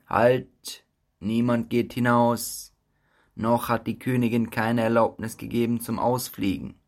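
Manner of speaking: loud commanding halt; stern guard. Acted. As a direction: bark it like a strict guard. Guard blocks the way.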